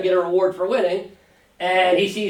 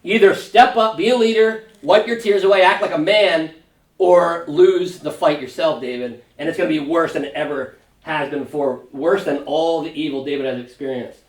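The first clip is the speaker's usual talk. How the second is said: forceful ultimatum. Retold or imitated. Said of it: "he basically gives him an ultimatum".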